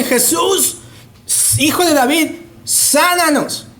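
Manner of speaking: high, insistent mock plea; emphatic high-pitched cry, drawn out at the end; demanding, not humble. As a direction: call out a demand for healing, pitched well up. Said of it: "no, no le dicen".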